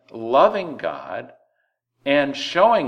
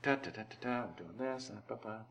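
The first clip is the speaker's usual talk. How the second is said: mock happy employee; 3 semitones lower, 11 dB quieter, faster than usual. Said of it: "and you said".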